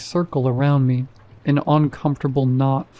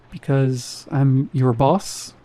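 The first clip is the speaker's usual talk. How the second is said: slow, rising question tune; unsure, asking rather than ordering; much slower than usual. Acted. Security guard to new cashier, unsure question tune. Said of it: "He said it like a question".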